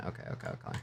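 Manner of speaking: breathy whisper to self; barely voiced okays. Real, not acted.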